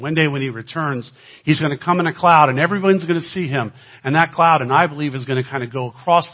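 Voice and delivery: rising preaching. Real, not acted. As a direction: proclaim the coming in the cloud. Preaching climax about Jesus returning.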